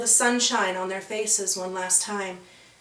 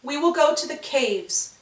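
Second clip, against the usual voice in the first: higher, holding back tears; proud but cracking; 5 semitones higher than usual. Acted. Ribboners saying goodbye, proud but breaking. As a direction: declare it bravely, voice breaking. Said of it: "the Ribboners declared".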